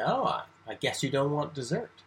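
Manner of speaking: mild ironic eye-roll tone; lightly mock the child's choice; tongue in cheek. Shown as a demonstration. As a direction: parent teasing child over dessert, dry irony. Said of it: "with your tongue in cheek, you roll your eyes".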